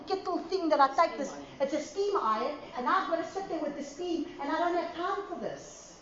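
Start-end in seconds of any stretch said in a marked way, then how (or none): 2.8-6.0 whiny complaint. Retold or imitated. Whiny complaint about ironing.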